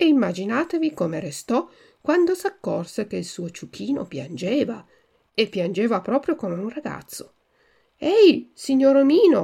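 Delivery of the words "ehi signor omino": loud, high shout calling out. A speaker calls out to the owner of the cart, shouted. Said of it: "gridò allora Pinocchio".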